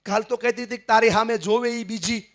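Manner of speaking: a hint of a scolding wife, half laughing; imitating a mother. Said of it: "આ મમ્મીના શબ્દો છે". (મમ્મીની હળવી નકલ, ઊંચા સૂરે)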